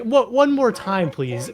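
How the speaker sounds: high, loud retold plea, barely holding it together; trying not to laugh. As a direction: mimic asking through a suppressed laugh. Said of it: "I'm trying not to laugh".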